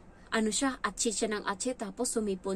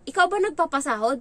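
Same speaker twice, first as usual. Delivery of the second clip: stern rebuke; 6 semitones higher, 7 dB louder than usual. Retold or imitated. Employer rebukes the child.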